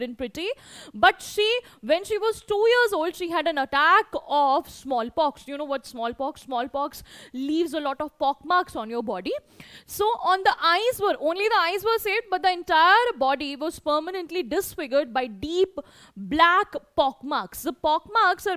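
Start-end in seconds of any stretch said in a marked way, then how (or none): 0.9-5.5 higher, projected reading to a class; lifted, deliberate textbook narration; story read-aloud. A narrator's reading. Reads the story text aloud to pupils. 9.9-17.6 higher, projected reading to a class; lifted, deliberate textbook narration; story read-aloud. A narrator's reading. Reads the story text aloud to pupils.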